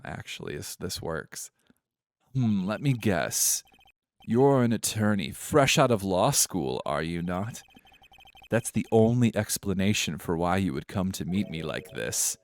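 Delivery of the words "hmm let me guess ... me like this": lightly posh British condescension; a hint of snooty, amateur posh British. Smug CEO guessing at the lawyer's job, posh British. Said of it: "I feel more posh now".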